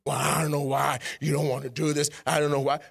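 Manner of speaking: low put-on grumble of complaint; mock complaining. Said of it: "and you are complaining".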